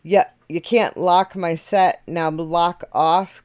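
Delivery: slow, drawn-out New York rap cadence; mild put-on New York rap voice; rapper's Brooklyn accent. Shown as a demonstration. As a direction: lean into the rapper's accent for the flow. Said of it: "I'm trying to do the, uh, accent".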